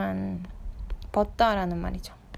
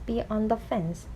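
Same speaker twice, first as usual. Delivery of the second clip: slow reading; much slower than usual. Shown as a demonstration. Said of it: "원형으로 보면".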